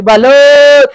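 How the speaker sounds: hawker's shout across the street; vendor's call. Real, not acted. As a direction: call out to buyers. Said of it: "sa pagsigaw ko".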